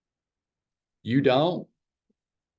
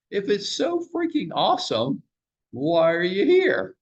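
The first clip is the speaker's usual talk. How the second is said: mock challenge; 7 semitones higher than usual. Mocking the Redfin agent.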